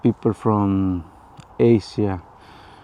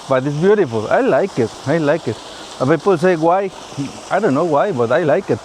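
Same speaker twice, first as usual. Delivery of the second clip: excited; 4 semitones higher than usual. Real, not acted. Gushing about Irish weather.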